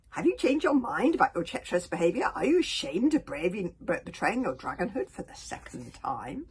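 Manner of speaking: loud, accusing dragon voice; furious dragon confronting the sea dragon; raging dragon. Acted. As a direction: hurl the accusation like an angry dragon.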